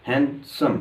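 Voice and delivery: हैंडसम split into two beats, हैंड-सम; a small gap between हैंड and सम; syllable by syllable. Shown as a demonstration. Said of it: "इसी तरह".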